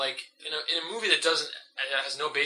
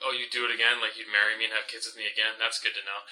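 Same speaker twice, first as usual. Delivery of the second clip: bad acting; 2 semitones lower than usual. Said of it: "he delivers it like".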